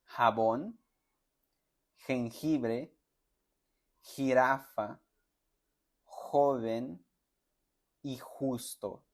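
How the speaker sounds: each word said slowly with the rough throat J; pronunciation drill words; Spanish J sound. Shown as a demonstration. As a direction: model "jabón" to "justo" one word at a time. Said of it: "tiene la siguiente pronunciación".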